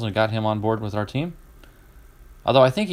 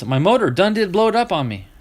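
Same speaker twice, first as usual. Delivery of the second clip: thick Southern drawl; 6 semitones higher than usual. Retold or imitated. Dale Earnhardt Junior telling the interviewer, in thick Southern drawl. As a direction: play a Southern racer explaining the blown motor. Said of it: "Tell me that ain't Southern".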